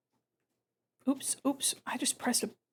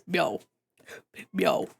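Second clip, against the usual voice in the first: deep meow; 5 semitones lower than usual. Retold or imitated. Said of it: "cat with a super deep voice".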